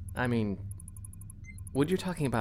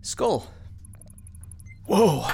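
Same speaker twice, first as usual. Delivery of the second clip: surprised; 8 semitones higher, 4 dB louder than usual. Acted. Reacts to strong drink.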